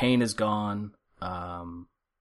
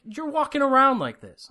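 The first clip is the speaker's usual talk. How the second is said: imitated high-pitched amazement; astonished nurse; 13 semitones higher than usual. Nurse amazed patient walks around unmedicated, retold astonishment. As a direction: marvel at him, pitched way up.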